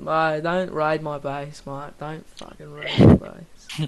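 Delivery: slow Australian drawl, building to a loud shout; hammed-up Aussie yelling about his base; Australian accent, rising to a yell; mock Australian. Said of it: "the Australian servers".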